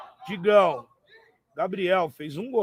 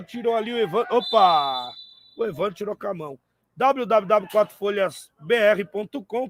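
ad read; 4 dB louder than usual. Acted. Live sponsor plug mid-match.

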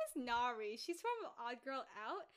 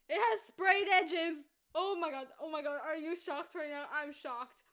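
shrieking jackpot winner; 3 semitones higher, 7 dB louder than usual. Real, not acted. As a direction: shriek it like you won big. Excited book reveal.

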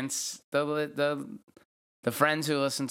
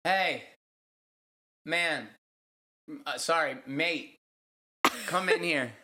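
higher, halting mock Australian; put-on Australian accent; 4 semitones higher than usual. Summoning their Australian friend onto the show, put-on Australian accent. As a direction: call out in a playful Australian accent. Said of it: "did she bring back our, um, Australian friend".

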